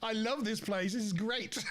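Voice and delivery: high-pitched gleeful retelling; delighted. Retold or imitated. Teenager suddenly popular with American girls by a hotel pool, delighted. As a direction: imitate a thrilled teenager loving it.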